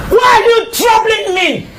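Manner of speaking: angry shout. Acted. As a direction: shout it back at her. Mother-in-law snaps back at wife.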